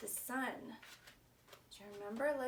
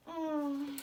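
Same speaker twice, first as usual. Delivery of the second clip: sigh; 2 semitones higher, 4 dB louder than usual. Acted. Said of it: "sighed Bear".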